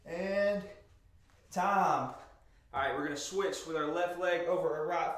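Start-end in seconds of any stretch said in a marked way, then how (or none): 0.1-2.1 loud call. Real, not acted. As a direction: call out the time. Coach calling end of set.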